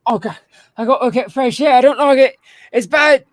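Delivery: high loud disgusted whine; guard disgusted. Acted. Game master voicing a fleeing guard, high disgusted whine. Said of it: "they start going like".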